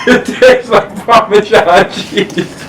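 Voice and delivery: laughing through the words; giggling in disbelief. Real, not acted. Laughing at bad candy taste.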